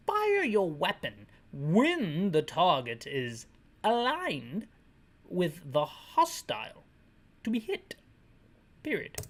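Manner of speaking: slow, stretched mock British; failed British accent. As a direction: drag out the fake British briefing. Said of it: "this guy isn't British anymore".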